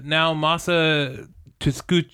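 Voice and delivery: "Naomasa Tsukuchi" read syllable by syllable, rising; "Naomasa Tsukuchi" sounded out slowly, unsure; slow careful name. Shown as a demonstration. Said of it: "You're not gonna say it right".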